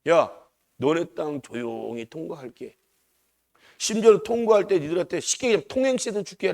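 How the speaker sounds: polite request. Retold or imitated. Moses asking for passage through their land, polite request. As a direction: lightly imitate a respectful plea, unhurried. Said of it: "정중하게 가서 얘기하잖아요".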